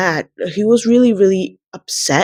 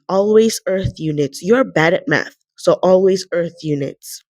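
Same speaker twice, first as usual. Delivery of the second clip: ordinary delivery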